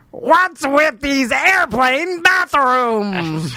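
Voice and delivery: slow, drawn-out comic rant; Gilbert Gottfried as Seinfeld. Acted. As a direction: ask it like a grating stand-up comic. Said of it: "Gilbert Gottfried as Seinfeld".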